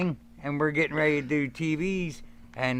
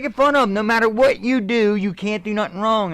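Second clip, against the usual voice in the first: higher, louder pep-talk voice; energetic mentor voice; Triple H impression; 6 semitones higher, 4 dB louder than usual. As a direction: fire him up like a confident mentor. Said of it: "He said".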